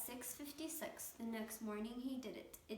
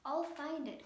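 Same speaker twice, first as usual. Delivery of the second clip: louder, higher determined cry; cried out; 5 semitones higher, 7 dB louder than usual. A narrator's reading. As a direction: shout the promise out with resolve. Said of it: "cried Horton".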